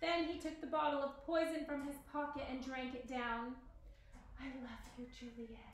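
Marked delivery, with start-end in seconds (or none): 4.4-5.6 hushed, very quiet, soft half-whisper. Romeo, having drunk the poison, speaks to Juliet beside him, half-whispering. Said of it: "he whispered".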